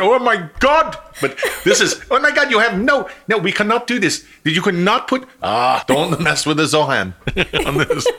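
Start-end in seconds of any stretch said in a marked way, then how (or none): 0.0-5.2 put-on high, animated Indian accent; hammed-up Indian accent. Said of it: "Indian guy went".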